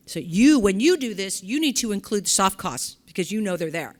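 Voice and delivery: a burst of real enthusiasm for the topic; getting excited. Real, not acted. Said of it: "I'm getting a little excited about this".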